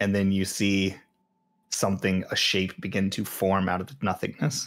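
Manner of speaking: ordinary talk, nothing marked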